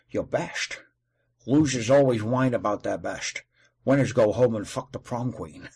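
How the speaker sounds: lightly done Connery line; a hint of Connery's menace; Sean Connery impression. Quoting Sean Connery's film line, lightly imitated. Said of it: "it's like The Rock".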